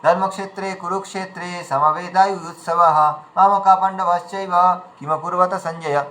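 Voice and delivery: verse run together, no clear breaks; rushed chant with pauses missing; recited without pauses. Shown as a demonstration. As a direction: recite straight through without resting. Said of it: "কোথায় বিরাম রয়েছে আমরা বুঝতে পারছি না".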